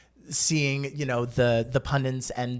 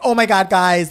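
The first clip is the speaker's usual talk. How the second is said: put-on gasping teen; 5 semitones higher, 8 dB louder than usual.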